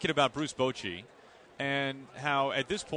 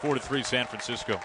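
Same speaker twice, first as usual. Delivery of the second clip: play-by-play call. Real, not acted. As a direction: call it like a big homer. Home run call on air.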